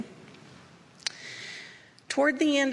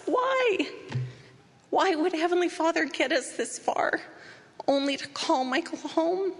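anguished; 7 semitones higher than usual. Real, not acted. Anguished questioning of losing child.

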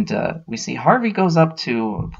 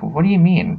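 higher-pitched puzzled reaction; retold disbelief with pitch jumping up; acted baffled question; 7 semitones higher, 3 dB louder than usual. They question Harvey's claim after his arrest, baffled.

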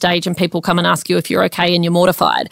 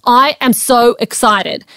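slow, higher-pitched declaration of excitement; excited pep talk; 4 semitones higher, slower than usual. Shown as a demonstration. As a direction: demonstrate saying it out loud with excitement. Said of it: "say it out loud".

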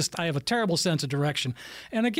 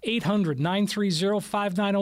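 radio ad read. Acted. Radio host reads phone number.

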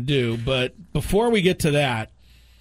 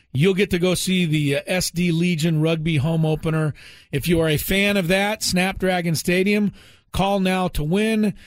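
radio contest promo; 3 semitones higher than usual. Acted. Radio ticket giveaway read.

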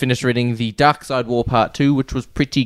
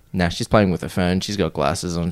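low, much softer reassuring himself; hushed self-talk; 7 semitones lower, 6 dB quieter than usual. Retold or imitated. Reading comics beside an old lady, hushed self-talk. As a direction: talk yourself into it under your breath. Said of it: "I just went".

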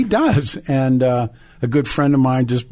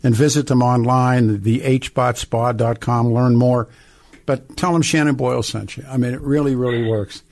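upbeat sponsor read; radio ad read. Acted. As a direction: read it like a live radio spot. Host reads a sponsor ad.

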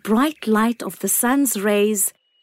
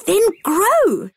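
bright, calling sun voice; the sun calling down kindly; warm beaming sun voice; 10 semitones higher than usual. A narrator's reading.

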